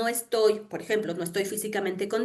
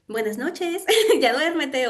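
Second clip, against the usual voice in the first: teddy bear voice; 4 semitones higher, 3 dB louder, slower than usual. Retold or imitated. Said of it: "el osito que le dice".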